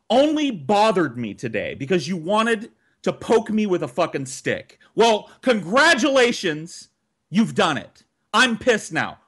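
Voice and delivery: retold rant at the siblings cheating at the game; angry rant. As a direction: lay into them, furious and fed up.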